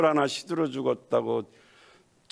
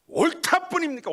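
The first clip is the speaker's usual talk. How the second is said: mocking retort, pitched very high; cheeky Jonah. Jonah sasses God back, pitched very high and mocking. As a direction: toss it back defiantly.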